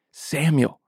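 a high, far-off call of the name; distant calling voice. Acted. God calling the sleeping boy, high and far off. God's voice calls again.

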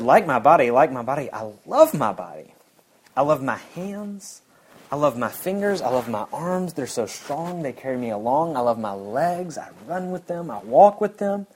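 lively, rising, delighted voicing without accent; joyful quote. Preacher voicing a Kenyan woman proudly loving her body. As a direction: lift each line with growing joy, no accent. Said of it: "I'm not gonna do the Kenyan accent".

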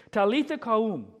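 "Talitha koum" said slowly, as tah-LEE-thah KOOM; Aramaic words. Acted. Jesus raising the girl, Aramaic spoken slowly. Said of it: "which means".

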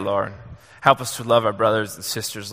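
ordinary talk

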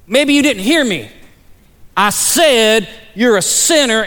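menacing repeat, each word driven home slowly; really aggressive. Retold or imitated. Buddy getting in the other guy's face, really aggressive. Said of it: "then he got really aggressive".

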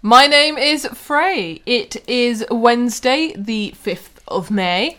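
slow announcer style. Acted. Slow show intro delivery.

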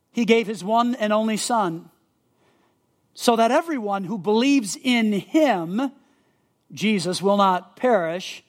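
verse read slowly, pausing between phrases; slow deliberate reading. Shown as a demonstration. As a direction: let each phrase land with a pause. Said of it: "So John three sixteen".

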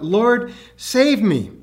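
mild cry for help. Retold or imitated. Peter sinking and calling to Jesus, mock cry. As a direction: call out as if sinking, understated. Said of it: "cried out".

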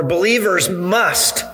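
MUST stressed firmly within the phrase; emphatic MUST. Real, not acted. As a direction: lean hard on the word "must". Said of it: "let me emphasize that word".

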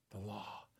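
"The law" said softly and low; quiet. Shown as a demonstration. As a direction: drop "The law" to a hush. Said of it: "contrast law and grace".

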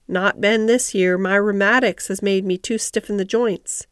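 put-on understated old gardener's grumble; grumbling voice. Ben answers Mary's question about the roses, mildly grumbling. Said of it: "He said it in his grumbling voice".

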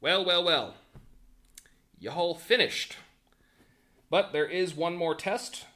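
lightly voiced grumpy elf official; curmudgeonly elf. Elf warns test-takers about being on call, curmudgeonly elf. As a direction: lay down the rules with a hint of curmudgeon. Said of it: "the curmudgeonly elf is in the wheelchairs".

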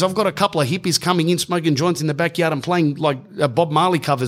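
high-pitched pub man making his case; acted-out complaint, pitch held high; exasperated protest. Pub man argues against loud band.

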